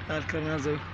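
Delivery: low, very quiet, wary murmur; tense hushed exploring voice. Real, not acted. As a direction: keep your voice right down in the dark. Creeping into a dark, feared place.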